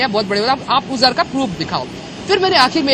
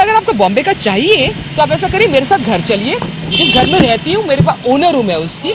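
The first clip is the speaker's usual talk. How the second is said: retold challenge, louder; raised voice; 4 dB louder than usual. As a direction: insist firmly, voice up. Arguing with constable. (कांस्टेबल को ऊँची आवाज़ में चुनौती)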